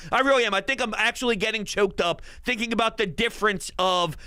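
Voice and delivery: ordinary delivery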